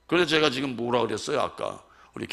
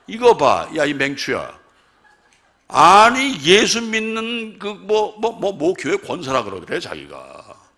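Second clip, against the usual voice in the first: loud, high scolding of the wife; retold scolding; 8 semitones higher, 13 dB louder, slower than usual. Husband scolding his wife, loud retold anger. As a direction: berate her loudly as in the moment.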